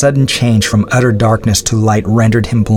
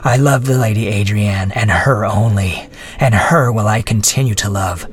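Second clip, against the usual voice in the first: contemptuous. Acted. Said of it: "replied the prisoner contemptuously".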